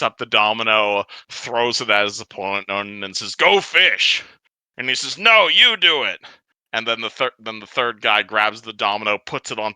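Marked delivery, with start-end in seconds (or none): 3.3-4.2 high squeaky goblin yelp; silly high goblin. Acted. Goblin NPC voiced by GM. 5.2-6.2 high whiny goblin; petulant high goblin. Acted. Second goblin answers.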